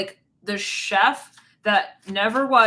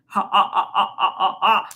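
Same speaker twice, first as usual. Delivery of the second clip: breathy mock snickering to himself; 2 semitones lower, 3 dB louder than usual. Imitating a man snickering alone over his scheme. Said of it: "I see them, like, laughing to themselves".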